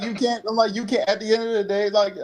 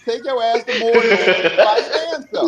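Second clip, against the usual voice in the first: louder, slow, laughing; laughing mock dismissal; 5 semitones higher, 4 dB louder, slower than usual. Riffing on a friend's line, slow and laughing. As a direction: send her off to Mordor with a laugh. Joking riff on the quote.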